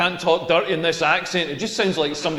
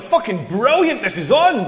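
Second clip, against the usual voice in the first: excited outburst; 2 semitones higher, 3 dB louder than usual. Retold or imitated. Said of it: "I wished I'd said it a little bit quieter".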